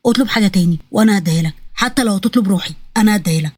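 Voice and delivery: low, earnest male figure pleading; a hint of a pleading lover; lightly voiced desperate prince. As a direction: offer everything, pitched low. Narrator voices Adam pleading.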